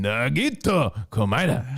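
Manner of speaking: hammed-up Asian accent on Nagito Komaeda; exaggerated, caricatured Asian emphasis. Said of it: "You gotta put a little emphasis on it".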